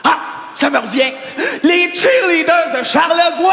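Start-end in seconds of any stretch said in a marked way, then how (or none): 1.6-3.5 cheerleader. Acted. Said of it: "elles ont de la voix".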